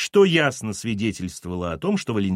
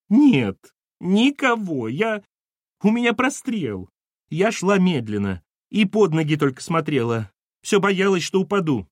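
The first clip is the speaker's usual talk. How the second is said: high-pitched tearful wailing; crying; 7 semitones higher, 4 dB louder than usual. Acted. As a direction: protest in a plaintive, weepy voice. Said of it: "почему вы плачете?".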